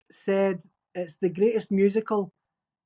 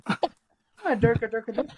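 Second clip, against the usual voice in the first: mimicking puppets' gibberish; put-on mock foreign gibberish; film puppet gibberish; slower than usual. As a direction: chant nonsense like a film puppet. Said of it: "like, going".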